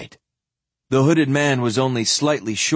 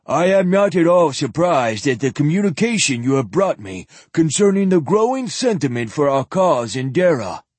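lisping; 4 semitones higher, 3 dB louder than usual. Acted. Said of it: "he lisped to Sparhawk".

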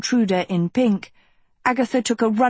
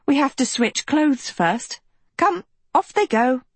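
higher, bossy and breezy; bossy princess voice; 6 semitones higher than usual. A narrator's reading. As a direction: brightly order her around. Sophie ordering clothes swap.

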